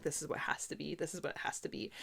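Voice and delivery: very quiet, low retold muttering; murmuring to oneself. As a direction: say it under your breath, almost whispered. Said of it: "I kept saying out loud".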